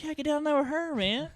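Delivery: high, loud urging of a buddy; retold buddy cheering him on, pitch way up; eager egging on. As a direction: push your friend into it, high and loud. Retold friend eggs him on.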